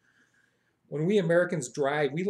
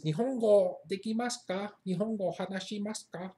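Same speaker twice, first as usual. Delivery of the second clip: higher, put-on polite questioner; imitated Japanese inquirer, pitched up; someone asking; 5 semitones higher than usual. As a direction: ask lightly in a raised voice. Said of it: "if someone asks you".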